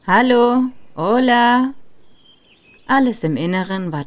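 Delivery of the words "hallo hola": loud, higher-pitched hello call. A narrator's reading. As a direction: call out high and loud for anyone inside. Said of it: "Ich rief nochmals". (laut und hoch hineinrufen)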